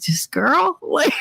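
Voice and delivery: high, exasperated scolding of a friend. Retold or imitated. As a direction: scold her like she's hopeless. Scolding friend in retold scene.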